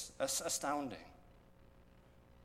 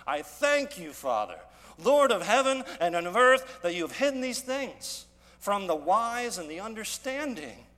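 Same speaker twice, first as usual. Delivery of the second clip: much louder and higher, exultant prayer; joyful rejoicing; 4 semitones higher, 8 dB louder than usual. Acted. Preacher voicing Jesus rejoicing to the Father, loud and exultant. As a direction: pour it out to the Father with jubilant thanks. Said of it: "So listen this way".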